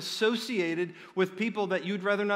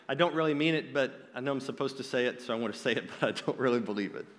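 mumbled reluctance, imitating a half-believer; sheepish; 3 semitones lower, faster than usual. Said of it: "with kind of sheepishly".

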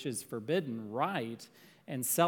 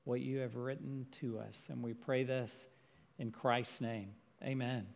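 prayer. Acted. Leads the congregation in prayer.

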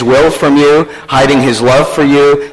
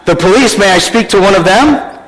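higher voice, questioning echo and rising end; telemarketer; 6 semitones higher than usual. Retold or imitated. Telemarketer asking a small boy for an adult, lightly acted higher questioning. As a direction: echo it back, then politely ask. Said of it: "A telemarketer".

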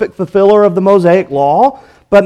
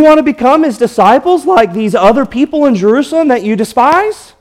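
sarcastic; 2 semitones higher than usual. Acted. Healed man mocks the Pharisees' questions, sarcastic. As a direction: needle them with a light sneer. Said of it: "You hear the sarcasm in the man's voice".

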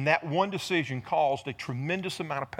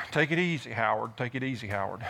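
mock calming; 8 semitones lower, 5 dB quieter than usual.

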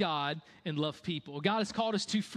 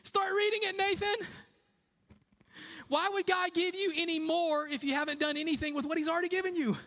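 mock God voice; 13 semitones higher than usual. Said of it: "if I were God, this is what I would do".

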